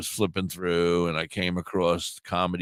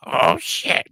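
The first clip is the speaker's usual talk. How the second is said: panicked whisper; 7 semitones higher, 4 dB louder than usual. Retold or imitated. Elmo shows up in his room.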